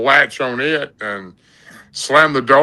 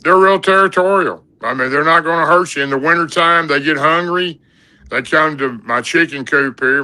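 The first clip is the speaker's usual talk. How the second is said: granddad; 4 semitones higher than usual. Retold or imitated. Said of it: "you know, he said".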